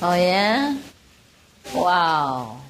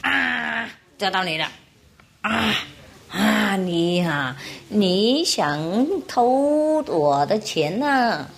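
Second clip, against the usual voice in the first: slow, drawn-out mock accusation; catching a thief; 2 semitones higher, much slower than usual. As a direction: stretch each word like a triumphant traveller. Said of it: "就抓到一个小偷人的手".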